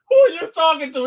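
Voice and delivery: high, whiny mock protest; mock indignant. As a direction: squeal back in pretend outrage. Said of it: "And I'm like".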